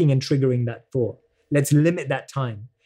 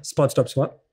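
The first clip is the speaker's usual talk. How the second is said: laughing; 3 semitones lower, slower than usual. Real, not acted. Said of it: "I can't say it three times fast".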